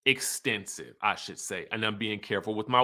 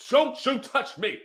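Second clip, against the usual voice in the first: mock warning; 11 semitones higher than usual. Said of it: "Robin is like".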